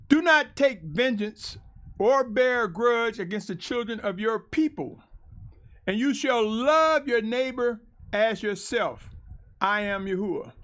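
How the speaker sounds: deliberate, emphatic verse reading; scripture reading. Acted. Preacher reading Leviticus to listeners, emphatic declamation. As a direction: declaim each phrase firmly, with pauses. Reads scripture aloud to congregation.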